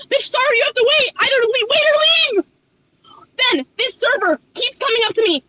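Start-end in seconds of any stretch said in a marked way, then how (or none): 0.1-2.4 exasperated yell. Pretend. Imagined yell at customer.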